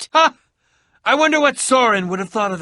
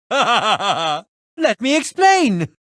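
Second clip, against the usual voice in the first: laughing; 3 semitones higher, much slower than usual. Acted. Laughing, excited reunion.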